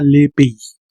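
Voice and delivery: "le pays" whispered, silent S. Shown as a demonstration. Teacher whispers "le pays" to show it. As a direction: breathe "le pays" with no voice. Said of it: "la S no suena".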